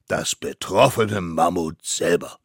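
loud, weighty confirmation; pompous mammoth judge. Acted. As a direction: confirm it with judicial importance. Court confirms its witness. (gewichtig bestätigender Richter, laut)

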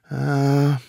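drawn-out resigned ah; exasperated sigh. A narrator's reading. Mammoth court loses patience with the stubborn child, sighing.

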